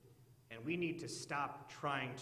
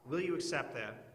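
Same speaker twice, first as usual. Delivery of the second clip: eager pleading question, pushed out; hammed-up haggler pressing God; bargaining with God. Preacher playing a sinner pressing God to accept, eager. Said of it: "we wouldn't say it like that".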